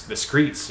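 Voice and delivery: "the streets" said with a k sound, skreets. Retold or imitated. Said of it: "that's how he pronounces it".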